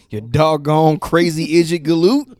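lightly voiced old prospector cursing; hint of a grizzled miner swearing. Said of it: "swearing like an old prospector".

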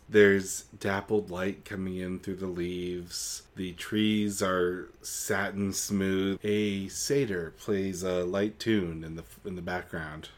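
slow, hushed storybook narration; dreamy scene-setting. Acted. Co-host painting the peaceful woods, slow serene narration. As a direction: lull them into the fairyland.

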